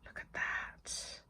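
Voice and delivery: slow, hushed marvelling; hushed awe; awed whisper. Real, not acted. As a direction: whisper it slowly in admiration.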